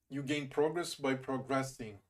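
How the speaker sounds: slowly, PRO stressed in progress, GRESS stressed in progressing; noun-verb stress contrast. Shown as a demonstration. Streamer testing a correction, slowly stressing PRO in progress and GRESS in progressing. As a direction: contrast first-syllable progress with second-syllable progressing, slow. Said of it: "last syllable when using it as a verb".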